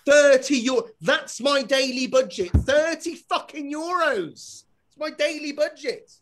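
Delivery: high, drawn-out indignant protest; outraged disbelief. Acted. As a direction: balk at the price, slowly and high. Acts outraged reaction to shop price.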